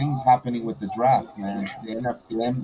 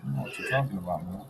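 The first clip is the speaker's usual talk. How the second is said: quick laughing denial; 5 semitones higher, 14 dB louder than usual. Real, not acted. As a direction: laugh it off fast. Laughs off accusation.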